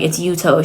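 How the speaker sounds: "Yuto" as YOO-toh, ending in a long o; correct pronunciation. Retold or imitated. Correcting her on the husband's name, Yuto as YOO-toh. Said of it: "doesn't know how to say his name".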